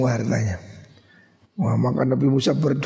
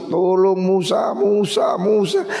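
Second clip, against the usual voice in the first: pleading cry; 5 semitones higher, slower than usual. Acted. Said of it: "waktu tenggelam itu nangis".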